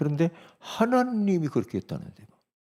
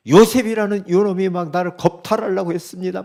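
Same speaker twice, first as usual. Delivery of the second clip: retold accusing cry, a bit higher; mock outcry; 4 semitones higher, 4 dB louder than usual. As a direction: imitate a wife crying out an accusation. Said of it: "막 소리 지르면서". (소리 지르며 고발하는 흉내)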